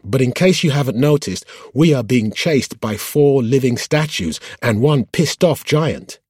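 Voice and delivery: high-pitched harried driver shouting back; calling back. A narrator's reading. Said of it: "the driver called back".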